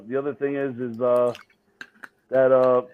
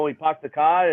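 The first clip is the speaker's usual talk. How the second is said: Boston accent. Shown as a demonstration. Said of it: "every time I pronounce my R's".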